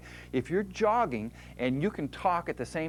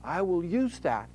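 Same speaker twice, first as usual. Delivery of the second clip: muscle voice; 4 semitones higher than usual. Retold or imitated. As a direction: announce it like the muscle. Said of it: "the muscle says".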